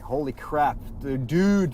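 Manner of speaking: surprised. Real, not acted. Jolted again while driving.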